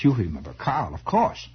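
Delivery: "Carl" with a hard German K. Acted. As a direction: say "Carl" as if spelled with a K, German-accented. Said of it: "that's spelled with a K".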